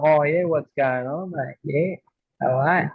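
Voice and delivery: broad working-class Aussie imitation; redneck Australian accent. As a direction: put on a rough Aussie twang. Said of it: "you know, like rednecks".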